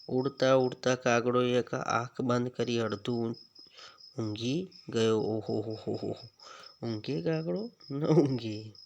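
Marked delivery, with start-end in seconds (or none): 5.2-6.3 ho-ho laugh. Shown as a demonstration. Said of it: "કૌંસમાં આપેલા શબ્દો કઈ રીતે હસો છો".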